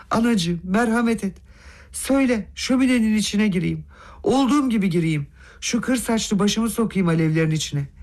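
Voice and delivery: high-pitched, imploring plea; pleading man. Acted. Begging Nastasya for mercy over the burning money, pleading.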